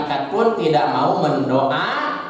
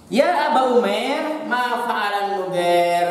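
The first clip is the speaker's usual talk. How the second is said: gentle greeting; 3 semitones higher than usual. Retold or imitated.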